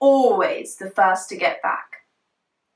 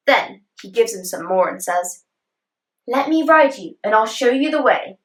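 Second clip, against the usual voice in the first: coaxing horse; 4 semitones higher than usual. Acted.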